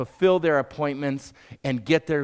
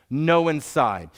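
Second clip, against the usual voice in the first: stubborn cab driver; slower than usual. Retold or imitated. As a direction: spell out the refusal slowly, no budging. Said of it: "He looks at me and says".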